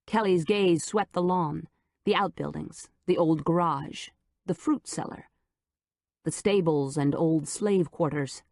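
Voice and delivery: usual speaking voice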